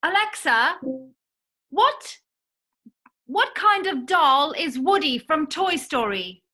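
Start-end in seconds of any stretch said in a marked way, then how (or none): 1.7-6.4 slow put-on British accent. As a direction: tries a British accent for Alexa. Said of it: "maybe British accent".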